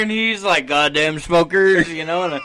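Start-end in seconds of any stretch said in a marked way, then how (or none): 0.7-1.9 loud, drawn-out fake indignation; imitating a terrible cover-up act; bad liar. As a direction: grumble it slowly and loudly, unconvincingly. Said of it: "He's so bad at lying".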